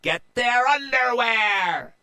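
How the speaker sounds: very high, loud pirate call; calling to crew. A narrator's reading. Pirate captain Annie calling to her crew. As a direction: call the charge across the deck. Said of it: "called to her crew".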